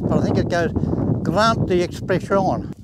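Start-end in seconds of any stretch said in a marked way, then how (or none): 1.2-2.7 slow, self-conscious French phrase; French attempt, said slowly; mock French. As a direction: try out a French phrase you don't really know. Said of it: "I can't speak French".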